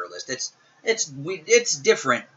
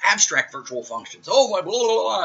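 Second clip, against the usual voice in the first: higher, mock-overwhelmed gasp at jargon; mock amazement; 6 semitones higher than usual. Teacher imitating a student dazzled by C++ features, mock awe. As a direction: play a dazzled newbie, then trail off into blah blah. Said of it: "look into C plus plus and go".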